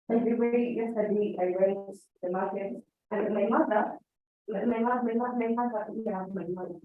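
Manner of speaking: soft, hesitant speech, repeating words; unsure speaker avoiding the audience; poor audience contact. Shown as a demonstration. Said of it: "I just can't come here and start saying".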